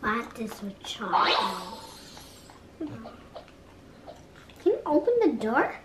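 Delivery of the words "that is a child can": whispering. Real, not acted. Scared child whispering in game.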